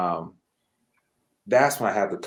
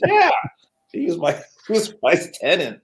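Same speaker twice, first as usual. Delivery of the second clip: high-pitched quote broken by laughter; laughing retelling; 8 semitones higher, 4 dB louder than usual. Retold or imitated. Landlord reveals the teacher was his tenant, laughing. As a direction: act out the reply while cracking up.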